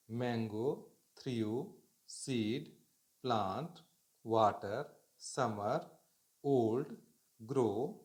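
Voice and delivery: word-by-word list reading, each word rising; reading aloud. Shown as a demonstration. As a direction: sound out every word clearly for the class. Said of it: "मतलब इसका pronunciation सीखना है।".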